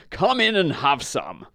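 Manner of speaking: friendly horse. Acted. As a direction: invite the dog in as a kind horse. Friendly horse invites the dog.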